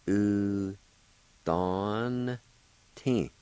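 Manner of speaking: U, don, tin said slowly syllable by syllable; Cherokee syllables. Shown as a demonstration. Teacher sounding out U, don, tin for learners. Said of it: "pronounce the N sound with the D A like this".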